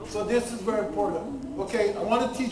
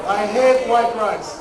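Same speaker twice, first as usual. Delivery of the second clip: slow, louder, hate stretched with feeling; with passion; 7 dB louder, slower than usual. Shown as a demonstration. Lecturer showing how to say it with passion. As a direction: spit out "I hate white rice" with real passion. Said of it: "say it with a passion".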